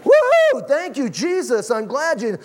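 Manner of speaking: whooping high and loud praise; Pentecostal praise. Retold or imitated. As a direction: shout it out like a Pentecostal. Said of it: "a little more Pentecostal".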